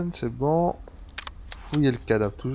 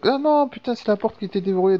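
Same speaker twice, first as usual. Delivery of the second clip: sudden surprise; 9 semitones higher, 5 dB louder than usual. Real, not acted. Gamer realizes the door was unlocked.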